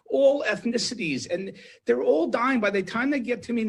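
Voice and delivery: rising, pleading, high and urgent; a doctor at the end of his rope, pouring it out; emotional outburst. Real, not acted. Doctor pleads with host about dying patients, raw and high. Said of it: "you got very emotional".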